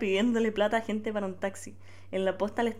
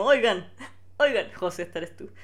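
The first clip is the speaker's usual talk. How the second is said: usual speaking voice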